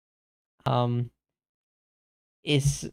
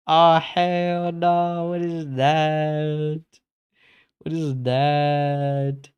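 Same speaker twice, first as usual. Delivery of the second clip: shocked, drawn out; slower than usual. Real, not acted. Shocked at a creepy artwork.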